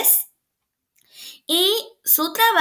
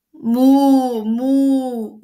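loud, drawn-out moo; cow moo; 5 dB louder than usual. A narrator's reading. Teacher reading a picture book, loud cow moo. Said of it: "mugió la vaca".

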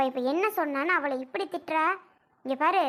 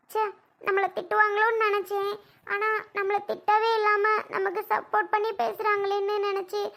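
higher, tremulous apology through tears; tearful apology; 3 semitones higher than usual. Acted. Daughter-in-law tearfully apologising to her mother-in-law. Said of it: "ஏம்மா அழுகுற?".

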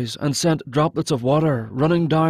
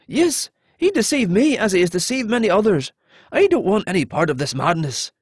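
higher voice at first, easing down; earnest captive; 5 semitones higher than usual. Acted. Captive explaining to the hero how he was deceived, earnest. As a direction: disown the king, earnest and pleading. Narrator voices pleading Alton.

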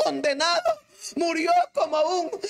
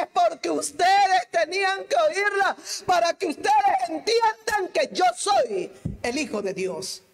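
preaching Jesus' words; 5 semitones higher, 4 dB louder than usual. Acted. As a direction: call out as if Jesus spoke to the crowd.

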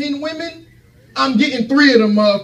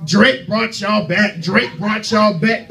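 slow, drawn-out mimicry of the doubters; mocking quote; slower than usual. Comic quoting those who say the rapper revived them, slow mockery. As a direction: drag it out to mock them. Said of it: "they wanna be talking about".

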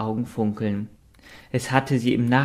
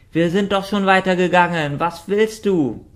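hoch, laut und empört; empörte Ente; 8 semitones higher, 5 dB louder than usual. Acted. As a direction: langsam und aufgebracht fragen. Richard fährt auf. (aufgebrachte Entenstimme)

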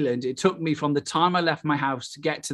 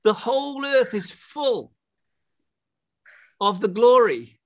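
slow, high-pitched preacher's proclamation; fervent preaching; 7 semitones higher, slower than usual. Real, not acted. Preacher proclaiming a God-saturated world to the congregation, slow fervent preaching. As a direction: draw each phrase out high and slow.

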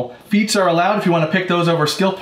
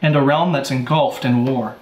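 measured storyteller scene setting; game master narration. Acted.

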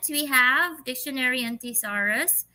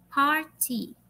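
Party said PAR-ty, stressed up front; stress on first syllable; 2 semitones higher than usual. Shown as a demonstration. Teacher reveals the answer, stressing the first syllable. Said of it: "Is in the first syllable".

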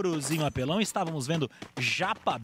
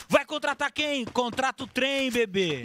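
hyped shout, a bit higher; mock shout; 6 semitones higher than usual. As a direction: call it out like a hype chant. (grito empolgado de brincadeira)

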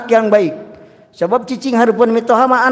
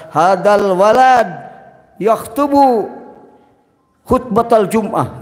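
fake Arabic; slower than usual. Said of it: "keur khutbah Jum'ah disangka".

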